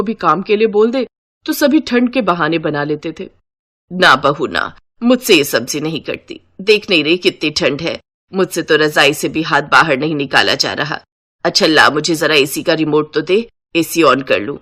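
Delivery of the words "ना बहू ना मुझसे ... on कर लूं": lower, motherly mother-in-law voice; kindly mother-in-law. Acted. Mother-in-law sending son and bride to rest, lower and kindly. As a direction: settle the tired bride in kindly.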